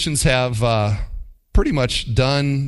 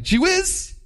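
mock mild exclamation. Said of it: "but something like".

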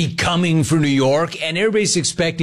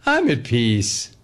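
mock serene. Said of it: "expect Gino to say".

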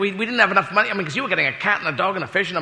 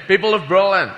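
put-on lost Kennedy accent. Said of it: "I've lost my fucking accent now".

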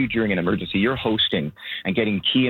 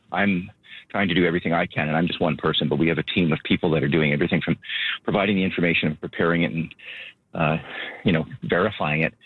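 slightly winded while packing; out of breath talking; 3 semitones lower than usual. Real, not acted. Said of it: "Sorry if I'm out of breath".

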